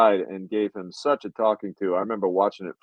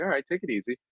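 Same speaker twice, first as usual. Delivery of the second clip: soft easy-going; 3 semitones higher, 7 dB quieter, faster than usual. Retold or imitated. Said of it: "just kinda like".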